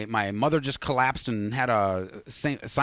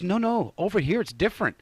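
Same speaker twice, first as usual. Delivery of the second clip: higher-pitched, lightly voiced woman; a hint of female pleading, pitched up; imitated woman insisting; 7 semitones higher than usual. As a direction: imitate her brushing off the objection.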